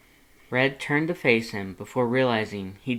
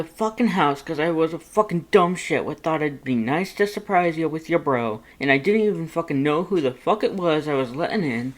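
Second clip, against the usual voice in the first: louder and louder, higher, then fast; building angry outburst; 6 semitones higher, 6 dB louder than usual. A narrator's reading. Red yelling at himself to Lust, building to a shout. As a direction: spiral up into a shouting rant until cut off.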